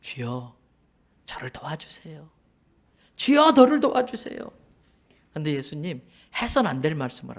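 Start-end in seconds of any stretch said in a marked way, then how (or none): 0.0-2.3 whispered plea, soft and desperate; pleading whisper. Acted. The mother begs Jesus in a hushed whisper. 간절히 매달려요. 3.2-4.4 louder, higher desperate cry; crying plea. Acted. The mother cries out to Jesus, louder and higher. 간절히 매달려요.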